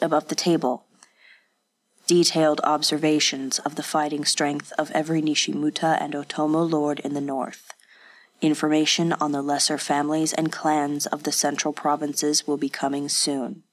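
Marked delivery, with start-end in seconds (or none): 2.1-13.6 a hint of a cold, dispassionate spy, lower; understated dispassionate spy giving his report; lightly voiced spy. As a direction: report it flatly like a hired informer. Spy character Kage reports.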